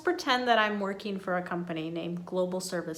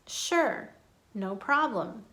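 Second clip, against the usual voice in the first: smiling, happy to help; slower than usual. Shown as a demonstration. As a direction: sound approachable and glad to help. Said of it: "Always smiling when you say these".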